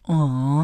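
drawn-out mock crowd "aw"; audience aww. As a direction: imitate a canned soundtrack aww. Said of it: "everyone was like".

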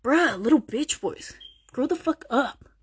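slow, drawn-out angry scolding; pissed off. Real, not acted. Vlogger scolding viewers, slow and fed up. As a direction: tell them off, slowly and fed up. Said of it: "Man, I got pissed real quick".

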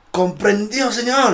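high military acknowledgement, imitated; obedient recruit. Recruit accepting the captain's absurd order, high parade shout. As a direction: sound off formally to an officer.

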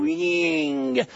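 a short low zooming noise for the plane; plane sound effect. Retold or imitated. Preacher sounds out his plane's takeoff. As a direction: mimic the plane taking off.

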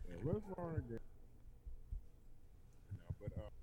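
choppy call audio cutting out; breaking up. Real, not acted. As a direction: voice dropping out on a bad connection. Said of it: "sounds like we're breaking up a little bit".

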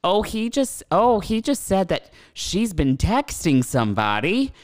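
a nosy neighbour reporting live to the dispatcher; gossipy live report. Retold or imitated. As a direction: narrate the fight like a thrilled spy.

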